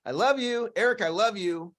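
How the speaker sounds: affectionate, with a smile; sincere. Shown as a demonstration. Man smiling at himself in the mirror, sincere. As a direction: tell your reflection you love it, easing down at the end. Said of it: "I smile at yourself".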